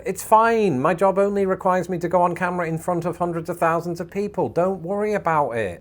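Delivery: high, strained brush-off; mock reassurance. Answering the apologising hairdresser, mock reassurance.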